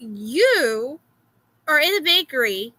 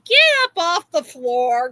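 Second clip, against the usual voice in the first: higher, louder motherly order; retold scolding; 4 semitones higher, 5 dB louder than usual. Mother to her son crawling at school, retold scolding. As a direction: re-enact telling off a child.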